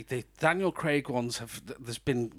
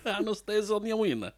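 higher, giggling through the pun; laughing pun; 7 semitones higher, faster than usual. Shown as a demonstration. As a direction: laugh as you land it. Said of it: "it's gotta be a pun".

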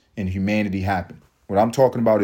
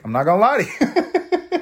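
usual speaking voice

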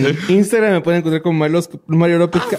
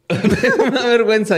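laughing; 5 semitones higher than usual. Real, not acted. Laughing while admitting embarrassment.

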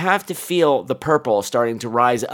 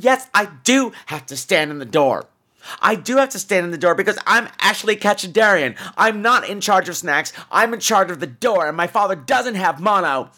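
put-on defiant kid; 5 semitones higher than usual. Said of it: "I should have turned around and said".

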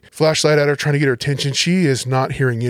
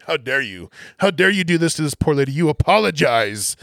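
retold outrage, not fully shouted; mock yelling; 3 semitones higher than usual. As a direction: imitate a supervisor's indignant dressing-down. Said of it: "starts yelling at me".

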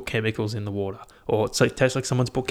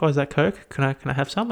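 lightly voiced, higher-pitched eager question; slightly raised quoting voice; imitating girlfriend; 4 semitones higher than usual. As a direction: mimic girlfriend asking for a taste. Voices girlfriend asking for some.

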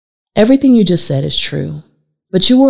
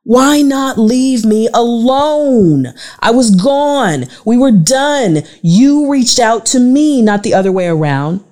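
slow, higher, insistent demand; 4 semitones higher, slower than usual. Acted. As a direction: lay out each point deliberately. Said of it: "I demanded".

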